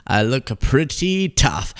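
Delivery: slow, drawn-out PRETTY TOUGH; mock tough. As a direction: stretch out "pretty tough" word by word in mock swagger. Repeats the pose with emphasis.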